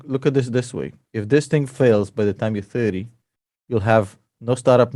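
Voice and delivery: normal talking voice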